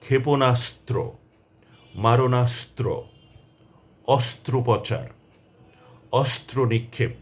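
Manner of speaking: each word like অস্ত্রাগার spoken with the স্ত্র cluster pressed, all three letters clear; careful word-list drill. Shown as a demonstration. Teacher reading a practice list to learners, pressing each cluster. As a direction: read each word slowly and deliberately, leaning on the joined letters. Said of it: "শব্দগুলো আমি আবারও বলছি".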